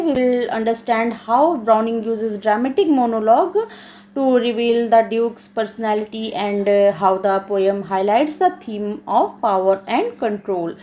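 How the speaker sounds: measured, slow English read-out; slow classroom reading; reading aloud. Acted. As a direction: read the study notes out slowly, phrase by phrase. Reads lesson text aloud in English.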